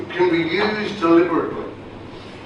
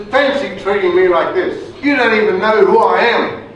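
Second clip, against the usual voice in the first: higher, louder posh English indignation; toffee voice; 6 semitones higher, 6 dB louder than usual. Retold or imitated. Soldier lecturing the MPs in a haughty posh English accent. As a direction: play the offended English aristocrat. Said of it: "puts on this real toffee voice".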